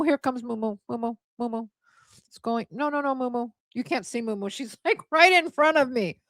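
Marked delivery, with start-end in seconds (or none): 0.0-4.5 cooing to the cat. Real, not acted. Owner cooing softly at her cat Moo Moo.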